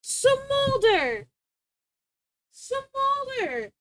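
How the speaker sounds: high sharp call to the dog; calling out to a misbehaving pet. Real, not acted. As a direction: snap his name at the naughty dog. Scolding the dog by name.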